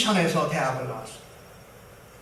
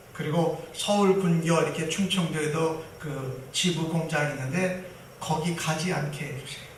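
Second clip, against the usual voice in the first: quiet prayer; 3 semitones lower than usual. Retold or imitated. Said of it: "기도를 한 거예요".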